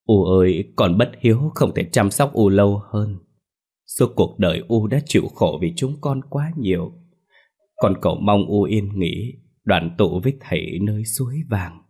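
choking back sobs, voice trembling; tearful, choked. Acted. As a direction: plead through tears to the dead mother. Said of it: "tiếng nghẹn ngào run rẩy". (nghẹn ngào, nức nở)

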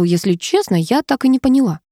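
ordinary delivery

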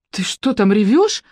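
drawn-out, wary questioning; suspicious question. A narrator's reading. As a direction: ask it slowly, with suspicion. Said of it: "подозрительно спросила Маша".

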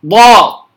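"ضا" as a voiced heavy d in place of ط; wrong ط, sounded as "ضا". Shown as a demonstration. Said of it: "كأنها تشبه الضاد". (نطق الطاء خطأً "ضا")

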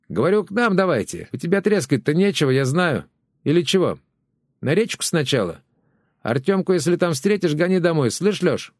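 high, brash neighbour's voice; chatty neighbour woman. Acted. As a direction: neighbour Valyushka pestering over the fence. Neighbour calls across the fence.

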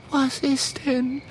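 high, slow sleepy drawl; yawning. Acted. Mathilda woken behind the chest, drawn-out yawn. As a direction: yawn through the words. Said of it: "gähnt Mathilda".

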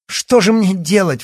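high, loud desperate cry; exclaiming. A narrator's reading. Yana crying out in despair to the doctor. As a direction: cry out helplessly. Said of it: "воскликнула она".

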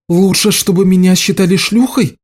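high indignant retort; bristling at his excuse. A narrator's reading. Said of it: "возмутилась Лиша".

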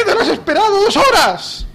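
high indignant screech; exclamatory mock shout. Scolding over two hours' wait, high mock shout. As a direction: jump up into high-pitched outrage. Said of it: "veinticinco mil admiraciones después de cada frase".

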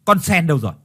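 a disgusted husband swearing at his wife; husband cursing his soiled wife, annoyed. Acted. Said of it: "thì ông nhăn mặt mà chửi".

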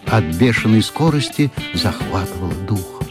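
ordinary delivery

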